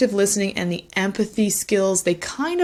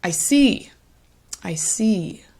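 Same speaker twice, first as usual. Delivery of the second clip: attentive listener tone; slower than usual. Shown as a demonstration. Tutor demos to OET candidates, attentive and warm. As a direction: show the patient you are following. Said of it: "so you get that sense of the intonation there".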